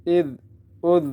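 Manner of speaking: dh without whistle; soft zaal. Shown as a demonstration. Teacher drills correct zaal, whistle-free dh. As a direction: keep each dh on the tongue tip. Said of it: "سیٹی کی آواز آئی".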